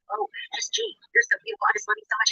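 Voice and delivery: high, gushing fan voice; mocking gush.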